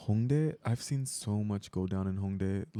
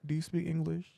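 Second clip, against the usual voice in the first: mock African accent, raised pitch; playful African accent question; 7 semitones higher than usual. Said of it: "we said that in an African accent".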